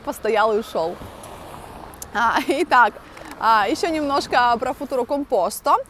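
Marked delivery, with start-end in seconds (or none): none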